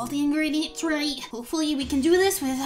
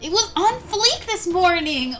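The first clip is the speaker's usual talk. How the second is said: panicked laughing; 8 semitones higher, 5 dB louder than usual. Acted.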